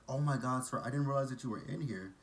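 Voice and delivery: flustered, mildly startled apology; apologetic. Retold or imitated. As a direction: retell a staffer's surprised apology. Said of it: "she was all apologetic to him".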